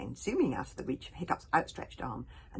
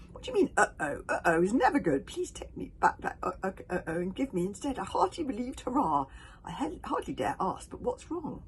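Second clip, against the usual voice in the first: higher, louder anxious babble; scared boy begging for good news; panicky fretting; 4 semitones higher, 4 dB louder than usual. Acted. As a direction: fret in alarm.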